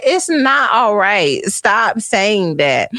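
slow, deliberate mock telling-off; firm scolding. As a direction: lay down the law word by word. Scolding daughter, slowed.

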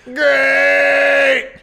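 flat, sudden high blurt of great; mock deadpan great. Retelling Otis's reply to Mandy, a high loud blurt. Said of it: "He just said".

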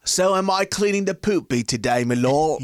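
lightly done bad British servant accent; mock British accent. Squire asking his lord about chores, in a bad British accent. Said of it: "fucking up that accent".

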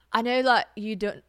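bad English accent. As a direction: try a clumsy English accent. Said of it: "that's a bad accent".

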